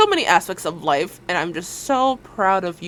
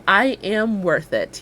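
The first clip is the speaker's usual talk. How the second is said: slow affirmation; slower than usual. Shown as a demonstration. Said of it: "and say".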